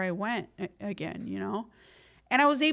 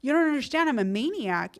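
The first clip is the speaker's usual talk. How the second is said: higher and louder, half laughing at yourself; retold rant to a cousin, playfully worked up; worked-up protest; 5 semitones higher, 5 dB louder than usual. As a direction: insist you can't stop, getting worked up. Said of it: "And I'm like".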